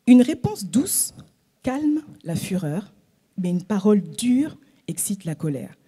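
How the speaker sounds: slow, hushed reading of the verse; scripture reading. Acted. Preacher reading a proverb to the congregation, slow and hushed. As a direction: read the proverb gently and slowly.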